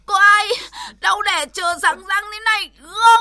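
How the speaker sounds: normal talking voice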